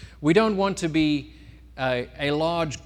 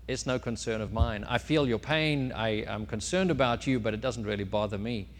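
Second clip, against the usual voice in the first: unconcerned chicken; 3 semitones lower than usual. Acted. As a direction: shrug it off with mild indifference. Chicken brushes off the mouse.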